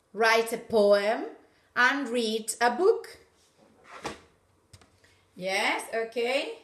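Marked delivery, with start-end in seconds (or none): 0.1-3.1 loud, slow, clear; loud slow dictation. Shown as a demonstration. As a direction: dictate it to the class. Teacher dictates slowly, loudly. (dictado fuerte y lento)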